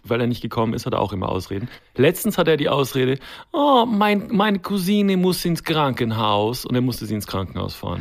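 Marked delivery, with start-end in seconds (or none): 3.5-6.6 higher, slow Eastern European excuse; mock Eastern European accent. Imitating the handyman's excuse in an Eastern European accent. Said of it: "wo du den Akzent grad so schön nachgemacht hast".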